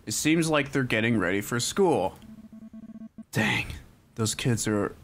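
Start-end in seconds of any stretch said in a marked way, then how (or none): 3.3-5.0 put-on brooding, self-serious teen mutter; moody edgy loner, dark and sulky; edgelord voice. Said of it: "I made him sound like an edgelord".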